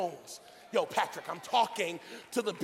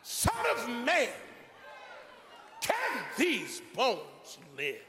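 voice of God; slower than usual. Acted. God questioning Ezekiel in the valley, solemn voice of God. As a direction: boom out a solemn question, drawn out. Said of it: "God asks an astounding question".

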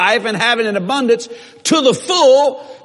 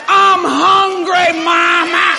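put-on baby voice; 4 semitones higher, much slower than usual. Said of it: "opened its eyes and said".

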